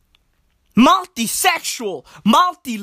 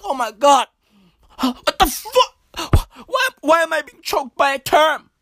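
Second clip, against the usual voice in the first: bewildered, gasping for words; gasping disbelief. Acted. Choking victim discovers what is choking them, gasping disbelief. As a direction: act out a mock-panicked double take. Acting out victim's shocked reaction.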